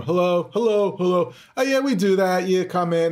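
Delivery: lightly mocking a blasé receptionist; bored receptionist impression. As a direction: parrot her bored phone answer. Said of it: "she answers the phone".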